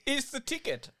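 hammy stage actor. Acted. Shakespearean character speaks.

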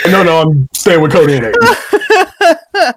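laughing through the words. Real, not acted. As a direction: say it while laughing. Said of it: "laughing correction".

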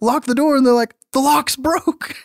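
high, frantic exchange; the last words slowed for comic effect; panicked teens. Retold or imitated.

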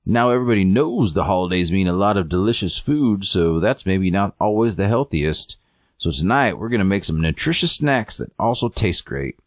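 lightly voiced TV host patter; a hint of chirpy presenter sing-song; show host. Host introduces healthy holiday snacks, light presenter voice.

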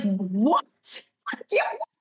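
incredulous laugh through the words; retelling her stunned laughing reaction; laughing disbelief. Retold or imitated. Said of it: "And I was like".

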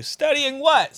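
squeaky question. Pretend. Mock voice questioning the vlogger's studying, high squeak. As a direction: ask in a squeaky other voice.

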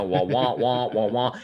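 muffled trombone-like wah wah; Charlie Brown adult wah wah. Retold or imitated. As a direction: imitate the Charlie Brown teacher voice. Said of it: "we sound like the adults in a Charlie Brown cartoon".

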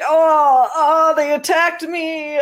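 high, pained fake-victim moan; overacted wounded victim whimper; mock groaning victim. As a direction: groan like the helpless victim, hammed up. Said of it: "making groans".

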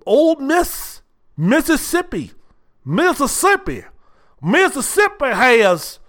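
Southern accent, slowly mocked; mock Southern drawl. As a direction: stretch out Mississippi like a Southern good ol' boy. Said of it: "they sound like that too".

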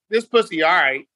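a bored so-so tone; flat lukewarm praise. Shown as a demonstration. Man to his partner in bed, offhand and unimpressed. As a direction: shrug it off, unimpressed. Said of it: "you're not gonna really go to another level".

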